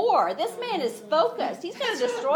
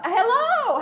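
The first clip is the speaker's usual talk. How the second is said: high, loud "hello," falling at the end; mock scream; 9 semitones higher, 6 dB louder than usual. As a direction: call "hello," down with a falling tune. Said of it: "at the top of the wall screaming".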